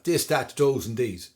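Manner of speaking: light mock Irish accent, dis and dat; a touch of Irish, th turned to d. The speaker imitating the Irish voice Cormac urged, lightly. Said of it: "the sort of Irish voice".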